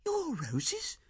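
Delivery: Ethel's startled high cry; wife crying out. A narrator's reading. Wife startled by her husband's question, high cry. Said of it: "she cried".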